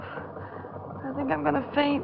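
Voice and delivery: about to faint at the sight of the body; faint and weak. Acted. Pat sees the corpse.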